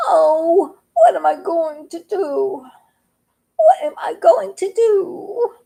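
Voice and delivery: rising to a high tearful repeat; mild fretting that turns to a cry; despairing frog. Acted. Lone frog crying to himself, left in the water.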